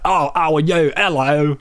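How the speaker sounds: high-pitched put-on Cockney greeting; Cockney accent. Shown as a demonstration. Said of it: "like a Cockney accent".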